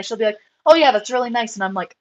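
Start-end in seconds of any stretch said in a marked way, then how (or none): 0.7-1.5 imitating casual, offhand praise; nonchalant. Mentor complimenting the breeder's lines, nonchalantly. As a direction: throw it away like passing approval. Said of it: "says it in the most nonchalant way".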